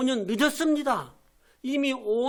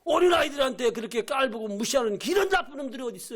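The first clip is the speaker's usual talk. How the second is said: furious rebuke; 3 semitones higher than usual. Acted. Jesus rebuking the disciples who turned children away, furious. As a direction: rebuke them in outrage. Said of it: "막 화내고 분개하셔서".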